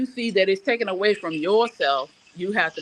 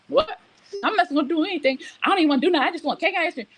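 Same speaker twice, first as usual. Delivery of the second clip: high, mocking sulky teen voice; mocking whiny daughter; 9 semitones higher, faster than usual. Mother mimicking her sulky daughter's complaint, higher and whiny. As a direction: mimic a pouty teenager, pitched up.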